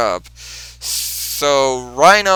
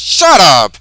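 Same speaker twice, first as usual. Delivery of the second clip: angry snap; 3 semitones higher, 8 dB louder than usual. Retold or imitated. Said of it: "Rhino responds".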